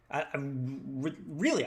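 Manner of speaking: tripping over the words; stammering start; stuttering. Real, not acted. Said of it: "I'm stuttering".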